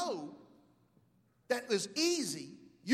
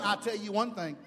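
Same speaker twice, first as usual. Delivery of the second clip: mock sass, dropping lower; sassy wife; 4 semitones lower than usual. Pastor mimicking his wife telling him off, sassy. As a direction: imitate a wife laying down the law. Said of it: "She'd shake her head like she had some weave".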